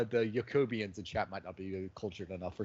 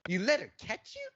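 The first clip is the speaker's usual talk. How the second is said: incredulous squeak, far higher; drops the voice; 12 semitones higher than usual. Retold or imitated. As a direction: abandon the big-man act in a high-pitched question. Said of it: "he just drops it for a minute".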